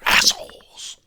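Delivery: harsh, loud, breathy spit of the word; rasped insult. Acted. Vlogger spitting insult at selfish protesters.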